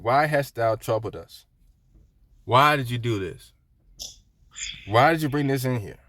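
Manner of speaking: slow, drawn-out reproach; measured, mildly acted rebuke; solemn questioning. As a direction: confront them slowly, stretching each question. Voices Joshua confronting the wrongdoer.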